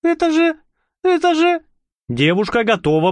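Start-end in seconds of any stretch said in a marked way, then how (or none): 0.0-1.6 high, faltering frightened voice; about to faint. Acted. Marusya about to faint at the blood, faltering. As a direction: stammer on the edge of fainting.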